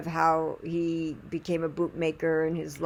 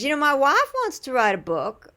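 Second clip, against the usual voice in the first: higher British-accented imitation; 6 semitones higher, 4 dB louder than usual. Knife sharpener mentioning his wife's book, British accent. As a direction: slip into your friend's English accent. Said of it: "he's got a really great accent".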